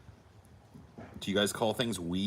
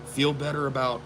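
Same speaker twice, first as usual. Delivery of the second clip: mom; 6 semitones higher than usual. Retold or imitated. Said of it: "And she goes".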